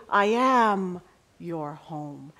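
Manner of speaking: slow it down and comfort her; tender reply. Retold or imitated. Preacher voicing God's answer to the homesick inmate, slow and tender.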